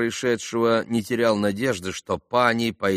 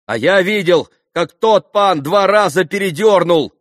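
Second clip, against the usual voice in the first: high, loud accusation; cried out; 9 semitones higher, 9 dB louder than usual. A narrator's reading. Young witness backs the cheating charge, crying out. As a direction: shout out what you witnessed. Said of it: "крикнул Колганов".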